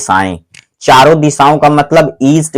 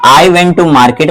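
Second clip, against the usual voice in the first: each word spaced out slowly for pupils; slow dictation; 3 semitones higher, much slower than usual. Shown as a demonstration. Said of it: "पहले इस वाले वाक्य को समझो". (बहुत धीरे, शब्द-दर-शब्द)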